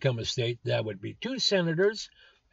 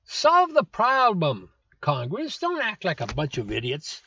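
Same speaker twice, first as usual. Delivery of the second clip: scolding Congress; 3 semitones higher than usual. Real, not acted.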